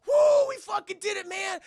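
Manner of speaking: high, loud whooping celebration; hammed-up victory whoop; mock cheer. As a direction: cheer like you just won. Retold cheering.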